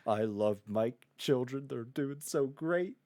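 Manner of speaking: slow, choked-up teacher voice, lightly done; a teacher overcome with pride, hammed-up; lightly voiced weepy teacher; mock teary teacher. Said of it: "teacher's just, like, crying".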